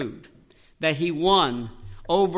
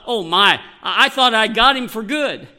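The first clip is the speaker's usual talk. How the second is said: imagined Satan; 4 semitones higher, 6 dB louder than usual. Retold or imitated. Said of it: "he must have thought".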